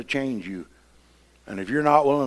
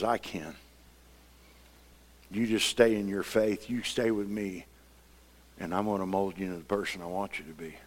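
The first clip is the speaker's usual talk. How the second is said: gentle voice of God; 3 semitones lower, 5 dB quieter than usual. Retold or imitated. Voicing God tenderly.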